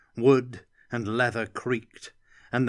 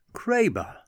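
sharp high rise on the name; suddenly recognizing the name; surprised; 12 semitones higher than usual. Acted. The Graf, startled by the name, asks in surprise.

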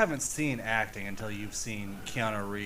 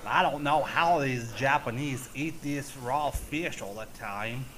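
mock American accent; 4 dB louder than usual. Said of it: "He's like".

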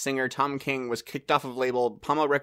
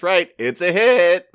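voice cracking; 6 semitones higher, 7 dB louder, slower than usual. Real, not acted. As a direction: voice cracks on a loud excited line. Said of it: "Oh, my voice just cracked there".

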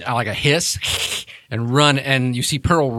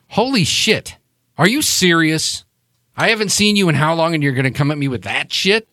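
high, incredulous outburst; indignant shock; 6 semitones higher, 3 dB louder than usual. Acted. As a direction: react appalled, rushing into a reproach. Maureen stunned by Val's question.

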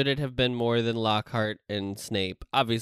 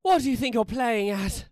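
higher, other-voiced reading of the book line; acted Justin; 9 semitones higher than usual. Reading Justin's line aloud for listeners, acted indignant. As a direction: deliver it as an indignant schoolboy.

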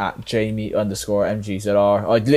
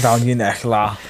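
put-on Scouse accent. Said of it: "a good Scouse accent".

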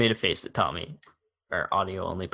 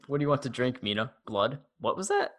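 mock Dracula host; 3 semitones higher than usual. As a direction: slip in blood then feign surprise. Mocking Mina offered drinks.

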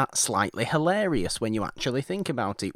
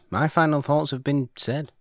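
raised, emphatic declaration on final; grand pronouncement; 7 semitones higher, 4 dB louder than usual. Shown as a demonstration. Host closing his review with a grand pronouncement. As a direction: announce it like a verdict. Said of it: "repeated line, first take".

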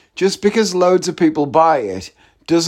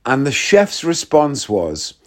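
normal talking voice

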